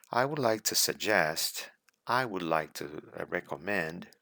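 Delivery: words linked in one smooth flow; flowing smoothly. Shown as a demonstration. Exam candidate giving advice, speaking in a smooth natural flow. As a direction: let the phrase run on naturally without breaks. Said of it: "See, the words are flowing".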